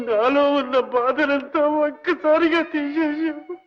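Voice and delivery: tearful. Acted. Old man overwhelmed by kindness.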